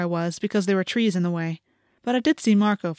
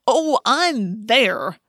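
loud, drawn-out, higher gloat; crowing; 4 semitones higher, 5 dB louder, much slower than usual. A narrator's reading. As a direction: crow it slowly and gleefully. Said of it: "Marco crowed".

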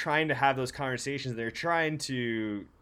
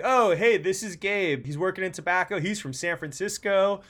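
imitating the boss; 4 semitones higher than usual. Imitating boss introducing him.

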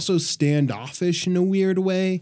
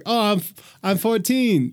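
Tommy voice; 7 semitones higher than usual. Retold or imitated. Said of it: "And he's like".

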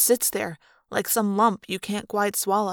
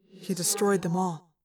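echoing alien voice. A narrator's reading. Ax's echoing character voice.

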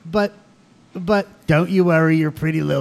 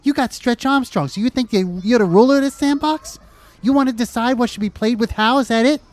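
angry rant; 5 semitones higher than usual. Acted. Schoolyard quarrel, ranting at rival.

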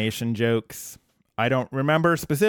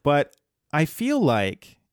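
mom voice. Pretend. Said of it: "I'm gonna put on, like, my mom voice here".

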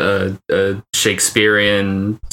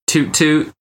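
car horn imitation; 6 semitones higher than usual. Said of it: "That's the sound of the cars".

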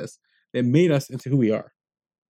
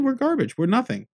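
mock despair; 10 semitones higher than usual. Despairing Jews quoted.

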